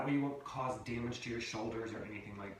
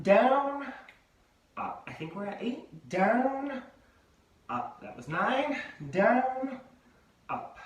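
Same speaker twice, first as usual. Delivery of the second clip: louder, higher count caller on down; high school gym voice; 9 semitones higher, 6 dB louder, much slower than usual. Retold or imitated. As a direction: call it like a gym class tape. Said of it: "the voice like we used to listen to in high school".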